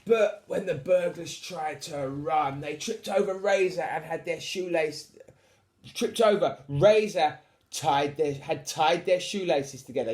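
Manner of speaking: animated bedtime storyteller; story narration. A narrator's reading. Reads the story aloud.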